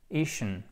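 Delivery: "Ischen" isolated with a short lax i. Shown as a demonstration. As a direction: give just the stressed syllable "Ischen", short i. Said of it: "il s'agit d'un I court". (« Ischen » avec un i court)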